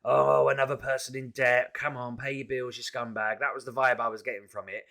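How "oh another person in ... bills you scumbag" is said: imitating a smug, sneering caller; lightly mock her looking down on you. Mocking the smug debt collector who called him, sneering. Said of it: "she was so smug as well".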